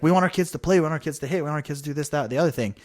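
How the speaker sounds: hammed-up panicked parent demanding play time; half-mocking upset bleacher parent; imitating upset parents. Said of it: "like, freaking out".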